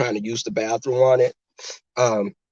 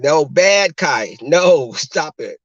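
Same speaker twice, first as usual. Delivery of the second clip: louder, laughing dog telling-off; mock scolding; 2 semitones higher, 5 dB louder, much slower than usual. Owner correcting her barking puppy, mock scolding. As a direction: scold a puppy half-amused.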